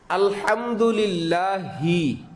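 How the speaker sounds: আলহামদুলিল্লাহি drawn out slowly, with the Arabic হা; slow teaching pronunciation of আলহামদুলিল্লাহি. Shown as a demonstration. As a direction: spell out আলহামদুলিল্লাহি slowly for the class. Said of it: "এটা কি ছোট হা না বড় হা?".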